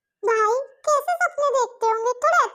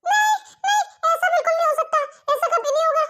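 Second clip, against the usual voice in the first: higher shouted protest, fading; shouting no; 3 semitones higher than usual. Acted. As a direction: yell no in horror, then settle. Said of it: "जेहूप के इतनी जोर से चिल्लाने".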